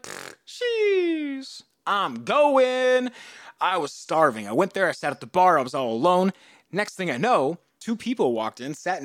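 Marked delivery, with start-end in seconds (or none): 0.0-3.1 eager retold exclaim. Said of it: "I was like".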